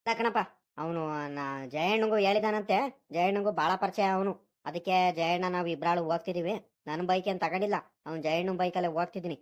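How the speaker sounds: low-pitched son explaining himself; lightly voiced grown son. Son tells his father about the village fair invitation, lightly voiced, low.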